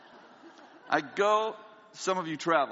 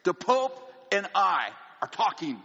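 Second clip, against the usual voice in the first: insistent pleading; 5 semitones higher than usual. Retold or imitated. Insisting to the clerk he must have his suit. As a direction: push hard, half laughing. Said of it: "I say".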